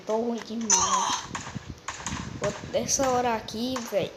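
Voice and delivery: almost falling asleep while talking; nodding off. Real, not acted. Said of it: "eu tô quase dormindo de novo aqui".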